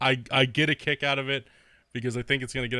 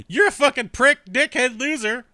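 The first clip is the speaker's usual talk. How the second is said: higher, louder mock tantrum; mock insults; 9 semitones higher, 7 dB louder than usual. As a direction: spit out the insults like a whiny kid. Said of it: "Then he's like".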